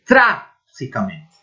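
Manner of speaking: Trágicamente said slowly in Spanish, stress on the first syllable TRÁ; Spanish pronunciation. Shown as a demonstration. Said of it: "olha essas palavras". (Trágicamente pronunciado devagar em espanhol, com tônica no TRÁ)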